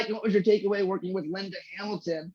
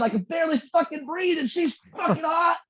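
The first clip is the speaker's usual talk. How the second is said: laughing while quoting; 5 semitones higher than usual. Real, not acted. Laughing through quoted line.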